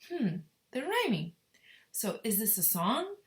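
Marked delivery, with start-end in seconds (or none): 0.1-1.3 whispered discovery. Real, not acted. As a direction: whisper it as if sharing a secret. Teacher whispering aside.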